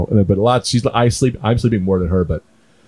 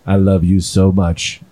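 doting; 6 semitones lower, much slower than usual. Retold or imitated. Doting dad gazing at baby.

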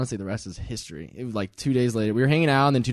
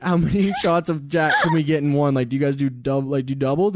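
put-on laughing drunk order. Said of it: "we were like".

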